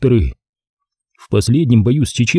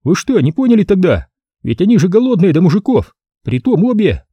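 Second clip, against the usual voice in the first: higher, merry captain voice; jolly ladies' man, higher; cheerful Savelyev; 8 semitones higher than usual. A narrator's reading. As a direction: say it gleefully, pitched up. Savelyev keeps joking.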